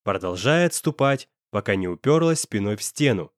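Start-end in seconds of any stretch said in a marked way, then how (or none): none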